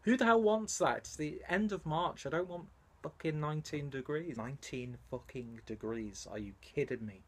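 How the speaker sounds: moaning about the heat, whiny and exasperated; a grumbling rant about the weather; whiny complaining. Real, not acted. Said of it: "I've become a whiny little bitch".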